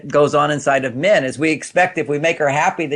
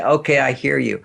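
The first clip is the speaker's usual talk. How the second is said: kind; 3 semitones lower than usual. Shown as a demonstration. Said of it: "It's a very kind statement".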